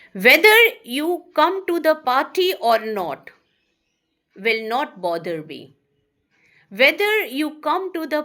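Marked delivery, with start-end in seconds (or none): 0.1-5.7 louder, emphatic reading of the example; loud classroom example read. Shown as a demonstration. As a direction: announce the example sentence firmly. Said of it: "teacher reads example sentence".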